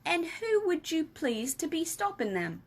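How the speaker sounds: lightly voiced friendly giant explaining; BFG voice. Giant explaining to Sophie, lightly voiced.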